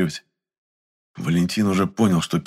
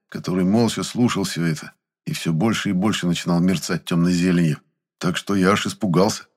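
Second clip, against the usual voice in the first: plain reading voice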